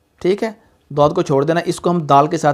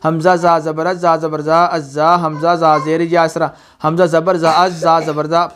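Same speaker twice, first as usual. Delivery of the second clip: mock rushed spelling. Shown as a demonstration. Teacher imitating students who spell too quickly. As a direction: rattle the syllables off hurriedly, no holds. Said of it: "बाज़ लोग इसको जल्दी करते हैं".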